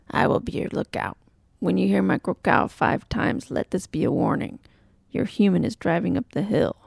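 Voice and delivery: lightly raspy crow voice; a hint of a raspy crow. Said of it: "said a raspy voice from the window".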